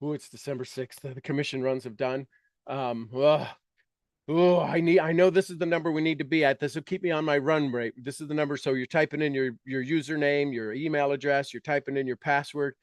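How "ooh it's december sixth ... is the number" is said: anxious. Shown as a demonstration. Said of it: "you're like".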